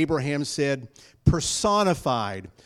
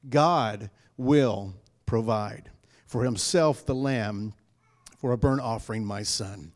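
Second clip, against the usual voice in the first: lightly voiced Abraham; 5 semitones lower than usual. Abraham voiced to his son.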